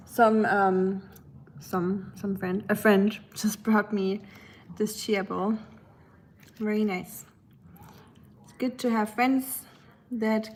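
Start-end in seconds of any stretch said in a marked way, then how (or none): 0.1-7.2 talking while chewing; words around a bite of food; mouth full. Real, not acted. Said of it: "I'm eating my, um, chia bowl right now".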